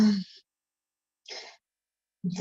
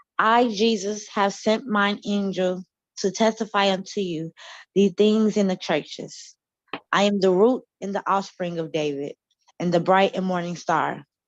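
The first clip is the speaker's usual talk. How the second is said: usual speaking voice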